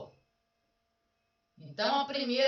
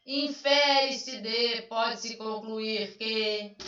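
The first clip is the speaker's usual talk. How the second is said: slow formal phrasing; much slower than usual. Shown as a demonstration. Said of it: "porque interpretação é quando a gente diz".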